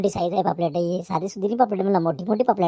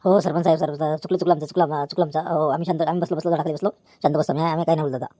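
subdued, hurried apologising; meek apology; 2 semitones lower, faster than usual. Acted. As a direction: back down humbly before the village head. Elders apologise meekly to village head. (नरमाईने, पडतं घेत माफी मागणे)

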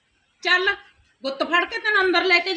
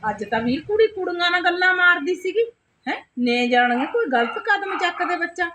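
crying through the words; tearful worry; 3 semitones higher than usual. Acted. Mother crying over daughter's phone chats, tearful. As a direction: weep as you fear for her.

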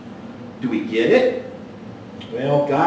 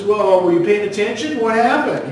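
higher-pitched questioning dad; probing parental question; 6 semitones higher, 4 dB louder than usual. Retold or imitated. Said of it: "He says".

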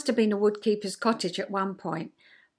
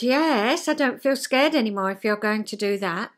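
put-on relieved child. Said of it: "said child".

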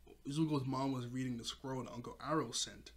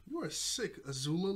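mock indignation; 5 semitones higher than usual. Zuko rebukes his sister.

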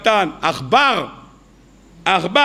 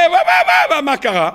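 high startled cry of fake dismay; hammed-up shocked wail; mock wail; 8 semitones higher than usual. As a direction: yelp in staged shock over the broken gift. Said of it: "ויעשה".

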